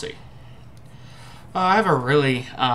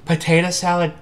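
slow, drawn-out, louder disbelief; surprised disbelief; 3 semitones higher, 6 dB louder, much slower than usual. Real, not acted. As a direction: stretch it out in amazement. First sight of odd flavor.

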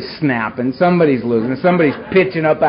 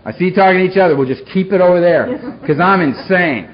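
menacing warning; 4 semitones higher, 4 dB louder than usual. Retold or imitated. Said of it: "That was the vibe I was throwing out".

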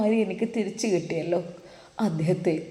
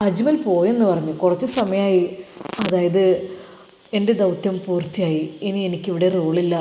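raised voice; 6 dB louder than usual. Acted. Talal reports news to mother.

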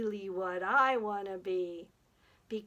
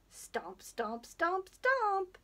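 stomps climbing much higher; rising stomps; 9 semitones higher, much slower than usual. Pretend. Storyteller counting off a dinosaur stomping away, stomps rising high. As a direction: step the pitch up with each stomp.

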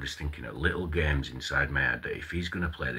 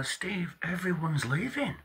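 raised-voice retort; 14 semitones higher, slower than usual. Retold or imitated. Retelling own reply to boss.

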